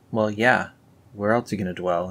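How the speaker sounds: ordinary talk, nothing marked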